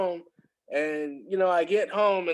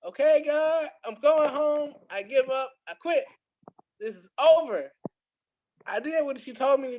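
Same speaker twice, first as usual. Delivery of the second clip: high-pitched, strained giving up on it all; exasperated giving up; 7 semitones higher than usual. Retold or imitated. Job seeker telling God he gives up, high and exasperated. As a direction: throw up your hands, voice pitched way up.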